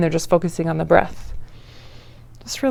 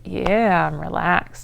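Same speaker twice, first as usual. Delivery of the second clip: relaxed sigh; much slower than usual. Shown as a demonstration. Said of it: "just to, like".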